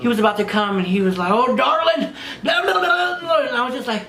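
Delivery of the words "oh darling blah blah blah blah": high, laughing Irish babble; mock Gaelic accent. Client at his climax, mock Gaelic accent. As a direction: ham up an Irish lilt into gibberish. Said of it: "talking some Gaelic fucking ancient language".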